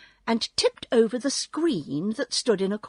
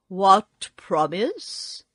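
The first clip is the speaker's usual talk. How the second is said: booming Oz voice; 3 dB louder, much slower than usual. Acted. Oz's great voice questions them.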